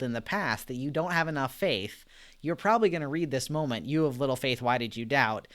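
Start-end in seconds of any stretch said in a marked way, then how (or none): 3.9-5.5 a touch louder, mildly irritated rebuke; mock-annoyed scolding of Peter; pissed off Jesus. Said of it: "like, pissed off at Peter almost".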